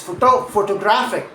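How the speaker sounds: photoGRAPHic, punched on GRAPH; stress shifted later. Shown as a demonstration. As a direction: let photo stay light and hit GRAPH in photographic. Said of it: "Stress jumps again".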